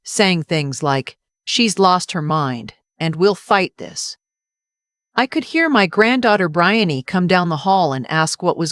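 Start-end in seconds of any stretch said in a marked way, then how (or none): 1.5-4.2 low and angry. Retold or imitated. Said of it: "low and angry".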